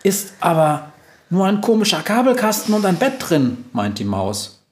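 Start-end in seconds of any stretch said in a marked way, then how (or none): 0.0-3.6 high little mouse voice; small-creature voice, pitched high; unimpressed mouse. Acted. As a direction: squeak it dismissively, high up. Mouse figure belittles the room.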